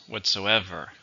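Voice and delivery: "Whatsoever" stressed on the third syllable, EV; "Whatsoever", leaning on EV. Shown as a demonstration. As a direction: say "Whatsoever" with the beat on EV. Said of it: "Stress is on the third".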